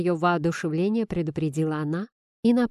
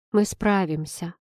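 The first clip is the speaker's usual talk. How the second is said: steady reassurance. A narrator's reading. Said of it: "уже уверенней добавил".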